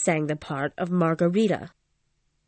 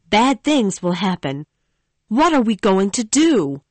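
put-on young woman pleading, anxious; lightly voiced Christine, distressed; Christine, upset; 4 dB louder than usual. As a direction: defend herself, then fear. Christine's voice, held.

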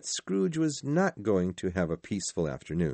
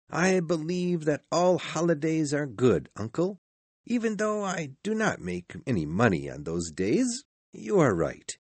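put-on high-pitched, sincere young relative; earnest nephew; 8 semitones higher than usual. A narrator's reading. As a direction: argue earnestly in a higher voice. Narrator voices the nephew.

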